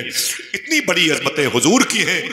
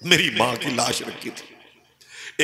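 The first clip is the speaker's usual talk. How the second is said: grieving; 5 dB quieter, much slower than usual. Retold or imitated. Grieving over mother's body.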